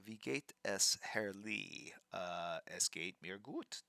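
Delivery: normal talking voice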